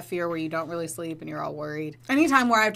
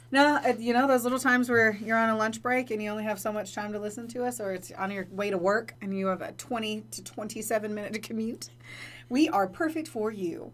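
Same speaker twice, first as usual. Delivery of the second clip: slick ad pitch, slowing at the end; infomercial voice; 2 semitones higher than usual. Acted. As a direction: sell it like a late-night commercial. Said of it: "That's the infomercial voice".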